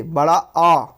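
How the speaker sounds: आ held long and open; fully open आ. Shown as a demonstration. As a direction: open the mouth wide on a slow आ. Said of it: "मुख आपका पूरा खुलेगा".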